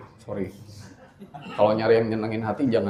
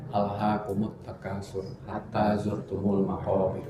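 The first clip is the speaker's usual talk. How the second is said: Quran recitation. Acted. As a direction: recite it reverently, unhurried. (lantunan ayat Al-Quran yang pelan dan khidmat)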